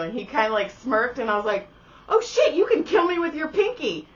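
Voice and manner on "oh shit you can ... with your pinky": high, louder mock alarm. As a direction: act suddenly spooked but amused. Mock alarm at his smirk.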